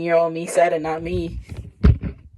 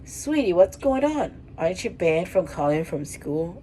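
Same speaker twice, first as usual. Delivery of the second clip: panicked mother. Acted. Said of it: "In a panicked voice".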